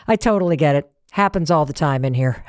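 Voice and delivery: light laugh, then low easygoing reply; imitated laughing reassurance. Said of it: "He laughed and he was like".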